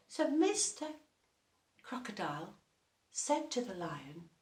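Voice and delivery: ordinary delivery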